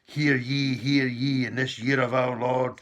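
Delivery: a hammed-up herald crying out hear ye; mock royal proclamation. Mocking the accession proclamation from the palace balcony, mock herald. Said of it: "announced from the, the balcony".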